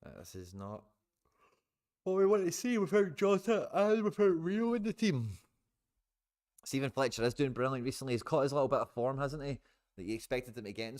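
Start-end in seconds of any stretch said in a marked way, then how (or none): 2.0-5.4 high, loud exasperated cry; frustrated outburst. Real, not acted. Frustrated fan watching a match.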